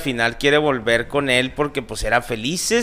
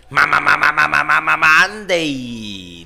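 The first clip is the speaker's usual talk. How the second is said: announcer intro; slower than usual. Pretend. Parodying TV show intro.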